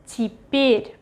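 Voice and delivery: Теперь with the first е as i, stress on the second; reduced unstressed Ye. Shown as a demonstration. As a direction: say теперь as ti-PYER, modelled for learners. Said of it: "pronounced as И".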